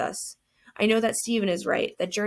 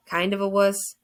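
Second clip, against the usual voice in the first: teasing repeat, punchy WUSS; mocking echo; 4 dB louder than usual. Dead friend echoes the boy's confession, mocking. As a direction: toss the phrase back in disbelief.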